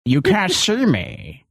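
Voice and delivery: very slow, lightly voiced creep; mocking the radio hero as a slow creep; creepy lurker voice. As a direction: drag each word out like a pervert in the dark. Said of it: "It's just this morbidly perverse voice".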